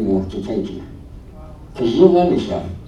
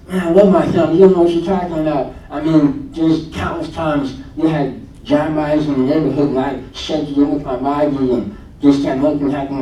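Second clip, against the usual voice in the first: mock angry friend; 3 semitones higher than usual. Friend angrily insists he loves his family, raised indignant voice. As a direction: play the offended friend defending himself. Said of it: "he's getting more and more mad at me".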